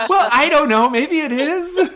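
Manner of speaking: high, loud laughing tease. Real, not acted. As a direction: giggle through it playfully. Teasing laugh after the joke.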